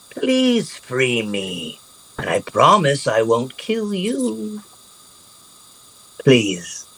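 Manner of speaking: a hint of a hungry gnoll begging; pleading gnoll. Gnoll begging the rogue to free him, slow pleading.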